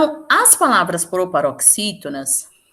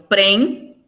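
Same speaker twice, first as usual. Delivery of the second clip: prem pulled out on its own and held long; stressed syllable isolated. Shown as a demonstration. Teacher pointing out which syllable is strong, prem isolated and drawn out. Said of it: "na hora de eu pronunciar".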